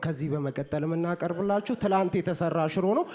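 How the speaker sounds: the host at home, lightly mock-announcing dinner. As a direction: announce the leftover stew like a stage host. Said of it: "ቤቱም ስትሄዱ ናሆም እንደዚህ ነው".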